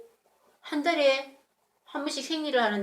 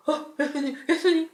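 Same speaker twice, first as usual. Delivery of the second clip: calling out; 8 semitones higher, 5 dB louder than usual. Acted. Father chasing, calling Jesus.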